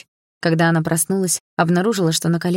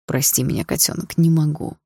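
sighing apology. Acted. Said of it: "вздохнул папа".

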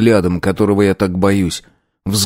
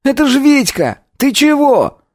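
alarmed friend, much higher; Lyokha. A narrator's reading. Friend confronting him after the fight, much higher voice. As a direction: protest at him.

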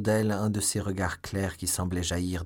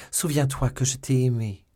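loud, higher-pitched appeal; crying out; 4 semitones higher, 6 dB louder than usual. A narrator's reading. Condemned Milady reminds D'Artagnan of her love, crying out. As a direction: cry it out as a desperate plea. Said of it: "cria-t-elle".

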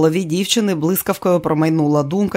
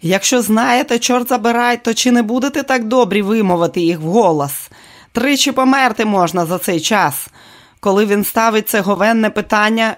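angry scolding; 5 semitones higher than usual. Acted. Director scolding actress.

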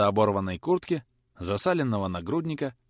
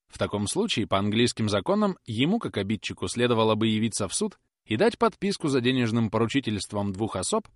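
ordinary delivery, nothing marked

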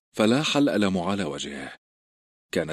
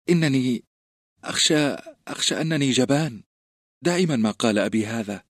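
put-on a nervous fat boy, higher, halting; timid stammering boy; 5 semitones higher than usual. A narrator's reading. A frightened boy explaining to the recruits why he didn't fight, halting. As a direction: stumble over the words in shame. Samwell admits cowardice.

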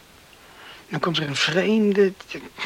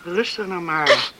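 soothing; 2 semitones lower, slower than usual. Acted. Comforting a crying woman.

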